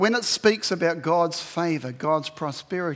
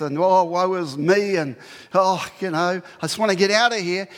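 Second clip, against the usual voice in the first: mock self-pity; 3 dB louder than usual. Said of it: "he doesn't say".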